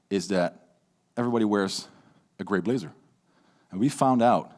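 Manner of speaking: low, flat and droning; monotone. Shown as a demonstration. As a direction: bore them to death. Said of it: "in a very monotone voice".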